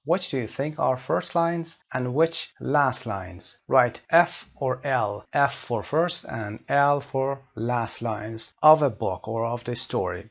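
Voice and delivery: slow, deliberate English read-out; measured classroom reading; teacher reading aloud. Acted. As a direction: read it out slowly for learners. Reads quiz instructions aloud.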